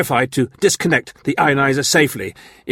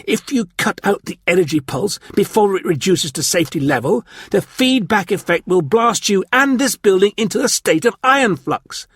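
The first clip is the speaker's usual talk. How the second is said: urgent exclamation; 9 semitones higher than usual. A narrator's reading. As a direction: warn them urgently, voice raised. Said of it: "Clent exclaimed".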